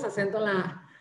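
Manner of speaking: words laughed out at own slip; amused at his own typo, laughing. Real, not acted. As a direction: chuckle through the words.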